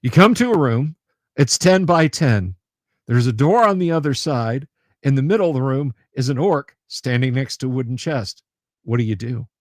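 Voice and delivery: lightly voiced Australian dungeon master; Australian accent. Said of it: "say in an Australian accent".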